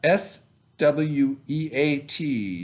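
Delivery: put-on slow spelling for young readers. Shown as a demonstration. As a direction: spell S W E A T out slowly, letter by letter. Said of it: "Now the E A is making an eh sound".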